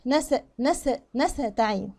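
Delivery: slow "نستعين" with the s let run; flowing seen. Shown as a demonstration. Teacher drills the seen, slow flowing s. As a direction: sustain the hiss of s in "نستعين". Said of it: "السين برضو هنا هعمل لها جريان".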